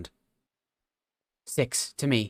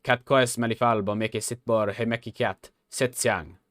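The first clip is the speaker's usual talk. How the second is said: robot; 5 dB louder than usual. Acted. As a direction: intone it like an ancient machine. Robot recites ancient words.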